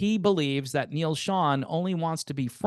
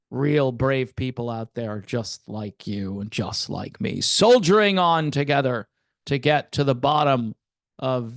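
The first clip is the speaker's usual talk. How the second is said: soap-opera announcer; 3 semitones lower than usual. Acted. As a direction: announce it like a TV drama host.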